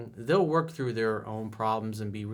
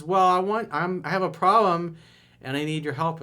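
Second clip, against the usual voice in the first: put-on higher, louder girlfriend voice with a problem; girlfriend's plea; 7 semitones higher, 6 dB louder than usual. Girlfriend telling her boyfriend she has a problem, pitched up. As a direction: play the upset girlfriend, pitched up and pressing.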